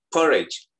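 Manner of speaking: porridge with the second vowel between I and E; I leaning to E. Shown as a demonstration. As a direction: say "Porridge" as "POR-edge", the I relaxed toward E. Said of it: "I-nya agak ke E".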